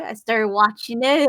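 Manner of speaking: normal talking voice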